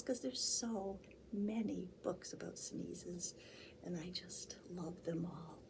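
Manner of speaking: fast, breathy whispered chat. Real, not acted. Storyteller whispering between books to the children.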